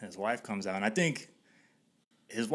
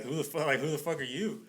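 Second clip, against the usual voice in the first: higher, puzzled comeback; retold bewildered challenge; 5 semitones higher than usual. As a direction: imitate a baffled who-are-you challenge. Retold stare-down at the door.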